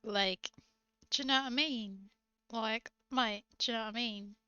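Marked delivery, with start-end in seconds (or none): 1.1-2.1 emulated British accent catchphrase. Shown as a demonstration. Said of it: "get better at emulating different accents". 3.1-4.3 quick, matey British accent. Shown as a demonstration. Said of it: "get better at emulating different accents".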